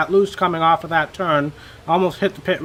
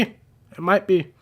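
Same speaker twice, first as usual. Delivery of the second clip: It might be said slowly, falling on be; slow confirming; 3 semitones higher, slower than usual. Real, not acted.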